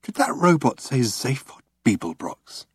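stunned, hushed question; dazed. A narrator's reading. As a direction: ask it half in shock. Ford stunned.

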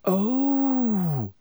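high startled gasp of a word; sudden realisation. Acted. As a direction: it suddenly dawns on her.

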